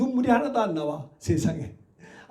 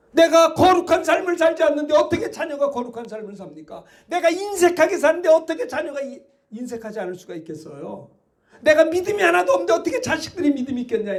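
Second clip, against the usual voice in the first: raised, forceful sermon voice; fiery preaching; 5 semitones higher than usual. Acted. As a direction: drive the rebuke home to the congregation.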